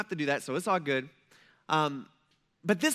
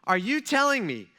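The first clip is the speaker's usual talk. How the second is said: the clerk's patience finally snapping; phone clerk fed up with the caller, incredulous; frustrated clerk; 4 semitones higher than usual. Retold or imitated. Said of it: "she's getting a little frustrated with me".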